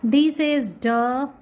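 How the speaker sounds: duh sounded out slowly; slow phonics demo duh. Shown as a demonstration. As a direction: give a clear slow duh. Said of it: "Like this".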